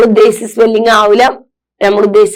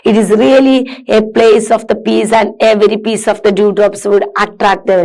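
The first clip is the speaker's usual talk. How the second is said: slow read-aloud; much slower than usual. Acted. Teacher reads diary passage.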